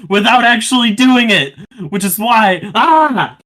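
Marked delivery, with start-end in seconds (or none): 2.8-3.4 frustrated shout. Real, not acted.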